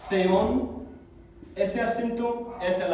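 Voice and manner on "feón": feón begun with a th, as in Castilian Z; Spanish Z sound. Shown as a demonstration. Teacher demonstrating the sound to students, Spanish Z sound. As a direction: pronounce feón with a lisped Spanish Z at the front. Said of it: "Así se pronuncia como la Z española".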